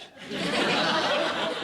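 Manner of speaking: high, airless nervous laugh; forced high laugh. Acted. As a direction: laugh to cover the awkwardness. Forced cheer about sharing house.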